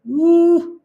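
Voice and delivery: a high, loud, sudden ooh at the drop; jolted into a squeal by the chart; surprised ooh. Real, not acted. Streamer spots the stock below the line, surprised ooh.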